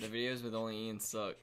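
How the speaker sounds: talking with nose clipped shut; pinched nose, blocked sound. Real, not acted. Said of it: "you got a clip on your nose".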